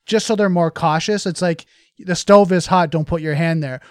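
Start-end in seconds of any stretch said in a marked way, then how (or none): 2.0-3.8 parent warning. Retold or imitated. Parent warning child about stove.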